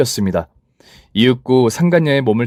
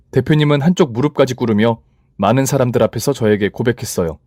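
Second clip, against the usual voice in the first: ordinary delivery, nothing marked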